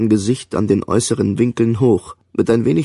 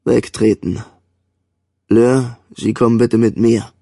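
calm. A narrator's reading. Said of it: "sagte ruhig".

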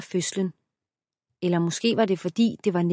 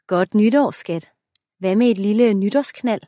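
loud, playful come-on; 2 semitones higher, 6 dB louder than usual. Acted. Husband playfully grabbing his wife, loud and teasing. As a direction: tease her into bed, louder.

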